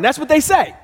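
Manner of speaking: ordinary talk, nothing marked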